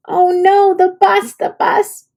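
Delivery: high, frantic wail about the bus; high panicked cry. A narrator's reading. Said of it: "he cried".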